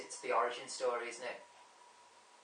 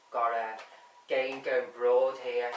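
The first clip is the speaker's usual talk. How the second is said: sudden loud outburst; 8 dB louder, slower than usual. Real, not acted. Sudden outburst about the list.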